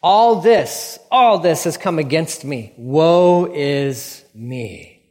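loud opening sinking into a slow, drawn-out woe; hammed-up wail of self-pity; self-pitying lament. Jacob blames others for his troubles, hammed-up self-pitying lament. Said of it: "He likes to blame other people".

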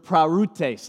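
parutes said as PAH-roo-tace, stress on first syllable; Greek word parutes. Shown as a demonstration. Pastor teaching the congregation to say parutes. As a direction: spell out parutes slowly in Greek. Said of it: "Let me hear you say parutes".

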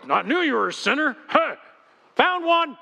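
gleeful finger-pointing, pitch jumping on found one; hammed-up self-righteous sinner-spotter; mock gotcha accuser. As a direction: catch someone out with glee. Mock judgmental church member.

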